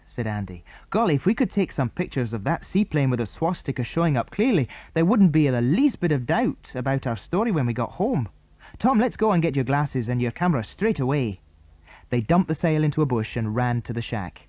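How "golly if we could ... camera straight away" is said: put-on bright boyish chatter pitched up; boy character voices. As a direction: boys on the island plotting, pitched up. Andy eager.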